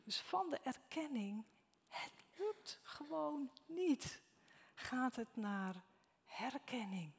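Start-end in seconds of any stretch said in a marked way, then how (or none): 1.9-4.2 slow discouraged sigh. Acted. Voicing discouraged disciples.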